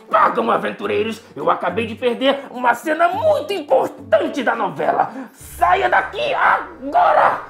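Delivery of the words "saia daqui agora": slow furious yell; angry shout. Acted. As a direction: shout them out slowly. Angry villain shouts them out.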